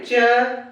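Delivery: च with the tongue pressed to the palate; a deliberate, separate च; palatal demo. Shown as a demonstration. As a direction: show च as a palate sound. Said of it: "तालु से टकरा रही है".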